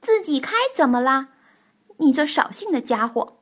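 mild shout in a quarrel; yelling back. Acted. Tiaotiao quarrels back at Bengbeng, mildly yelling. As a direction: raise the voice to argue back. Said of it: "也扯着嗓门儿喊起来".

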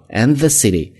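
"the" with tongue between teeth, voiced; careful voiced th on the. Shown as a demonstration. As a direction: model "and the city" with a buzzed th. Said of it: "the 浊辅音咬舌头".

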